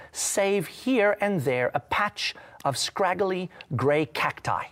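reading the book aloud, slow in places; story reading. Acted. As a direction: read it like a story to the church. Pastor reads book passage aloud.

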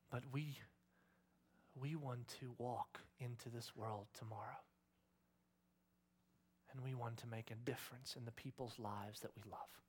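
soft, unhurried prayer with long pauses; closing prayer. Real, not acted. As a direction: speak quietly and earnestly to God.

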